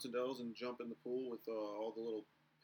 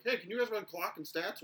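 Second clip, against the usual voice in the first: higher, louder imitation of an organizer; imitated league staff request; 6 semitones higher, 3 dB louder than usual. League staff asking the visitors to work, imitated request. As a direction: lightly voice someone asking a favor. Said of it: "and they're like".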